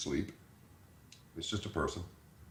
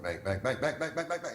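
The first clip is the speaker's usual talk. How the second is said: interrupting caller; 8 semitones higher than usual. Retold or imitated. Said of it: "And I went".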